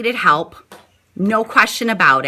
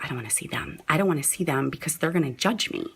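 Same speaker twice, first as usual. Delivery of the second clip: put-on reluctant old self; 6 semitones lower, 11 dB quieter, much faster than usual. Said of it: "Where before I'd be like".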